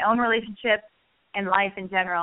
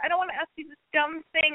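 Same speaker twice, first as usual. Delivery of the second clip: self-doubting disclaimer; 6 semitones higher than usual. Shown as a demonstration. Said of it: "no disclaimer".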